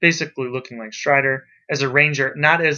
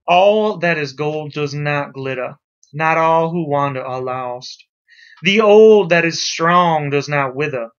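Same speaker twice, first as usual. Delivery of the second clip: slow, lightly Southern recitation of the poem; a gentle hint of a Southern drawl, read slowly; southern accent; 2 semitones lower, slower than usual. Teacher reads Tolkien's poem to the class in a Southern accent. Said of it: "and I will use my southern accent".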